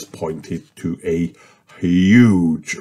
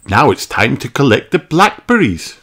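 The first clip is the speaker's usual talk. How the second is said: Mummy Pig greeting; 6 semitones higher than usual. A narrator's reading. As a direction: greet the little boy as his mother. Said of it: "says Mummy Pig".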